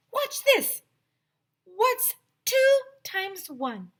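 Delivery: high slow showman voice; Miss Kraft's clown voice. Acted. Clown teacher starting a trick, high slow showman voice. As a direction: draw them in like a clown magician. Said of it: "said Miss Kraft".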